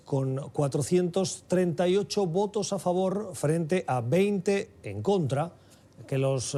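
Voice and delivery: measured news-anchor delivery, lifting key phrases; news read. Acted. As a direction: present the headline story to listeners, deliberately paced. Reads the news intro. (lectura de noticiero)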